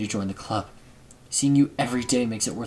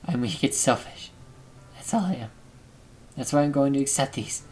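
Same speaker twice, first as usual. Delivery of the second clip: put-on hushed, broken-down girl; quiet self-blaming confession; sad Sayori; 4 dB quieter than usual. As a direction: let her sound worn out and ashamed. Reads Sayori's dialogue.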